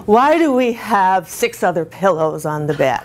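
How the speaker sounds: mock-whining husband with stretched words; petty bedtime complaint, mildly whined. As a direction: lightly whine it like an annoyed husband. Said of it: "He became gradually a one-star whiner".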